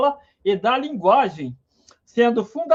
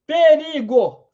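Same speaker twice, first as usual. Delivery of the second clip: slow drawn-out warning call; mock alarm cry; 4 semitones higher, 4 dB louder, much slower than usual. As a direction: stretch it out like warning the tribe. Alerting the group to danger. (grito de perigo arrastado)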